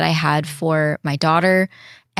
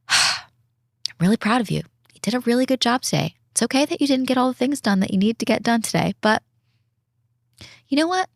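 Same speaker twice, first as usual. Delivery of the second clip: higher, quick, cheering herself on in the car; pitched-up proud self-encouragement; encouraging pep talk; 6 semitones higher than usual. Retold or imitated. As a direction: hype yourself up after work. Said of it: "be like".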